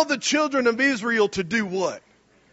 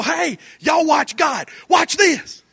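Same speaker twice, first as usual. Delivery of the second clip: cocky Moses; 5 semitones higher, slower than usual. Acted. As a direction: hype up the crowd to watch. Preacher voices Moses showing off.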